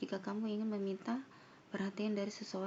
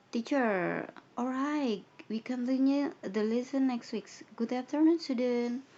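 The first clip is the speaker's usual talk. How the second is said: loud teacher farewell; 3 semitones higher, 6 dB louder, slower than usual. Acted. Voicing teacher ending lesson.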